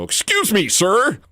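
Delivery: high-pitched caricature of a white man; exaggerated impersonation of a white person; mock white-guy voice. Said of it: "Martin Lawrence impersonation of a white person".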